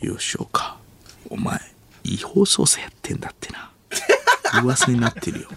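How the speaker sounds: lightly put-on Tokyo accent, under the breath; muttered standard Japanese. Actor going over police drama lines, careful muttered Tokyo accent. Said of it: "関西弁で喋らないようブツブツとセリフを復習する".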